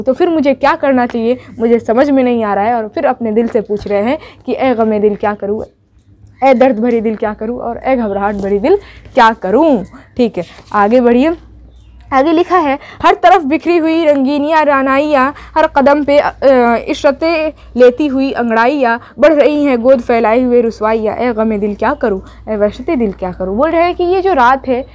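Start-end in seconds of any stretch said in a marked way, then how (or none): 4.5-9.8 poem recitation. Acted. Recites the refrain. 13.0-23.5 poem recitation. Acted. Recites the next stanza.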